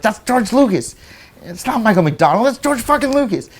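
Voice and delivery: excited disbelief. Retold or imitated. Spotting George Lucas, excited.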